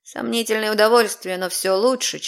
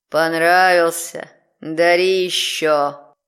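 demonic layered voice; 5 semitones lower, slower than usual. Acted. Demon speaks.

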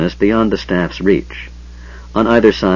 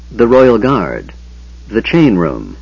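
chapter title; slower than usual. A narrator's reading.

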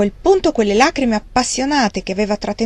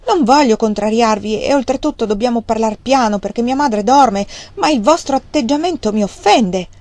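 cold, offended reply, pitched higher; icy tone; 4 semitones higher than usual. Acted. Margaret rebuffing his declaration, icy and offended. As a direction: freeze him out with every word. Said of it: "quando sentì il suo tono di ghiaccio".

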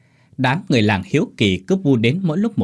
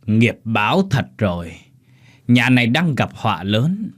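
slow, weighty warning, a bit louder; old man speaking loudly. Acted. Old fortune-teller warns master Lý, slow and raised. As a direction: announce doom slowly to the house. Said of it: "ông lão nói lớn".

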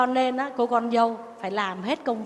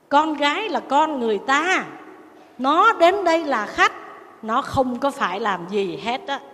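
mother-in-law laying down the law, emphatic then dropping; acted rebuke. Mother-in-law tells daughter-in-law off for ordering her daughter, mildly scolding. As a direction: imitate a stern in-law putting someone in her place.

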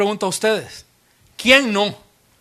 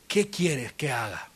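hushed plea; 4 semitones lower, 6 dB quieter, slower than usual. Retold or imitated. Saul asks the Lord again.

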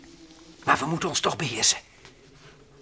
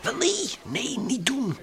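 alarmed no; 12 semitones higher, much slower than usual. Acted. Stops Frans going over.

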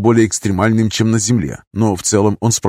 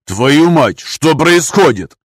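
angry shout; 5 semitones higher, 3 dB louder, much slower than usual. Acted. Scalded by hot coffee.

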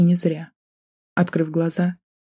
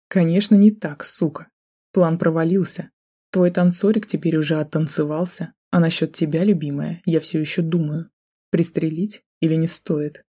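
usual speaking voice

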